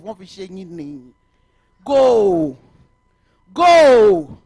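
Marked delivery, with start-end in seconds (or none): 1.8-4.4 louder, higher barked "Go."; emphatic order to get out there; loud command. Real, not acted. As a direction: send them off firmly.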